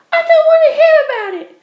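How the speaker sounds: high, loud repeated shut up; furious shout. Acted. Penelope shouts down her ex, loud and furious. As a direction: drown him out in fury.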